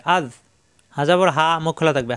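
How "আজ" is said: আজ with a soft tongue tip at the teeth. Shown as a demonstration. Teacher showing learners the zal in আজ, soft Z. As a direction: end আজ gently, tongue tip on the teeth edge. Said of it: "নরম করে".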